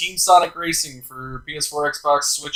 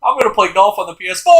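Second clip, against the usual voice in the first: fast, loud and high hype shout; announcer shout; 6 semitones higher, 7 dB louder, faster than usual. Pretend. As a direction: yell it like a sports announcer. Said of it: "What was that?".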